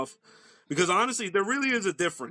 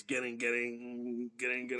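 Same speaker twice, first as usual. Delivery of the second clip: mimicked breakdown chugs; 4 semitones lower, 9 dB quieter than usual. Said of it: "those breakdown parts".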